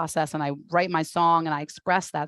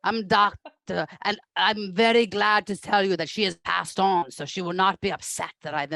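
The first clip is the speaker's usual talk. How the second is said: put-on German therapist accent. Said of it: "That's the German".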